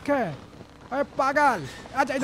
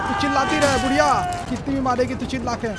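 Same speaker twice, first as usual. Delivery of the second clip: taunting yell; 4 semitones higher, 3 dB louder, faster than usual. Real, not acted. Yelling taunts at granny.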